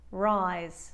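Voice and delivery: "rise" with a buzzed Z at the end; "rise" with voiced Z. Shown as a demonstration. Accent coach showing the New York change, "rise" with vocalized Z. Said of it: "the Z sound, does have vocalization".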